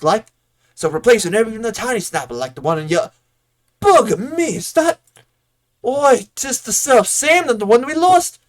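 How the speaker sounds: hammed-up, unplaceable rustic accent, rising high in exasperation; Bodwin's muddled accent. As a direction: grumble in a wobbly made-up country accent. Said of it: "I don't know what accent this is".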